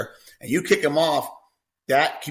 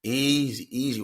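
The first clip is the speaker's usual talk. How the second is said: soothing easy; 5 dB quieter, slower than usual. Shown as a demonstration. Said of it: "And I'll go".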